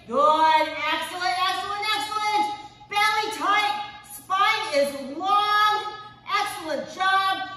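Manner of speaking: loud encouraging coach shouts; workout coach cues. Acted. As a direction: cheer them through the plank.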